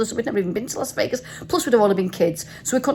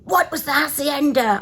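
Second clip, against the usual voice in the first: higher mock quizmaster voice; quizzing taxi driver; 5 semitones higher than usual. Taxi driver testing tourists on Vegas, mock quizzing. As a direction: imitate a cabbie setting a quiz. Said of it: "he insisted on doing a quiz".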